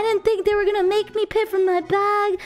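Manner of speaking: sobbing apology. Retold or imitated. Stranded traveler crying to his mom on the phone, mock sobbing. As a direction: imitate a crying boy begging his mom. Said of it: "he's on the phone, like".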